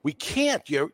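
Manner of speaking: high, dismissive voice for the station boss; mock station boss. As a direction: brush the kid off like the boss did. Radio station boss refusing him.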